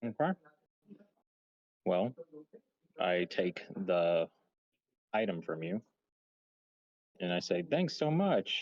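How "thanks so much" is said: upbeat, cheerful, cheery voice. Role-play player accepts an item from another character, in a cheery voice. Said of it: "in a cheery voice".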